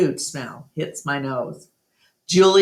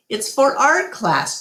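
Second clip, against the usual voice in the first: Julia's voice; 7 semitones higher than usual. A narrator's reading. Julia, a girl, talks to her dad.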